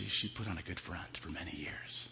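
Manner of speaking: husband whispering the dark truth to his wife; whispered confession. Acted. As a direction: hiss it out secretly.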